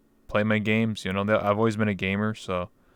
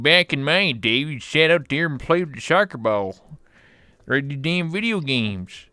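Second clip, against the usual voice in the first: put-on baby boomer parent; 5 semitones higher than usual. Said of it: "they're baby boomers. So they're, they're like".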